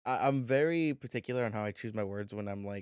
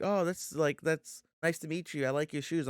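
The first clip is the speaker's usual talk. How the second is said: put-on girl voice; 6 semitones higher than usual. Voicing a girl meeting him.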